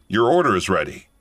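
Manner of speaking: calm and even. Retold or imitated. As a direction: say it very calmly. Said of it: "very calmly said".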